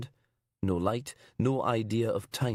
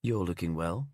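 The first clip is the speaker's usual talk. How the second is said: slithery cold voice; 4 semitones lower than usual. Acted. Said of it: "as if something dead had slithered".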